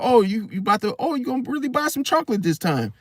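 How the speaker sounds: mock-hopeful, teasing tone; sarcastic. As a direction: tease her as if she'll finally buy it. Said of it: "I was being sarcastic".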